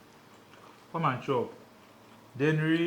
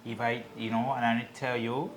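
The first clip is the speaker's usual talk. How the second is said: lightly put-on Spanish accent; attempted Spanish accent; 3 semitones lower than usual. Husband shows off his new accent to his laughing partner, mock Spanish accent. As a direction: try a joke Spanish accent. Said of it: "trying to speak in a Spanish way".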